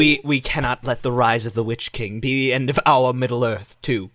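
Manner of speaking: low, solemn heroic resolve; rally your comrades as a grave elf; Legolas. Acted. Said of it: "Legolas goes up to".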